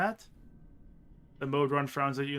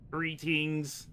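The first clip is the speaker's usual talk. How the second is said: monotone robot voice. Acted. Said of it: "speaks with a monotone, absolutely no sex voice".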